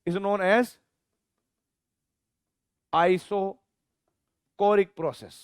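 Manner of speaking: slow, word by word dictation with long pauses; teacher dictating a definition; dictation pace. Shown as a demonstration. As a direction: dictate it for notes. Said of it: "dictating a definition slowly".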